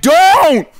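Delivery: high imitated warning yell; sudden high mock holler; retold yell. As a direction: yell it out like someone up a ladder. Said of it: "Willie just yells out".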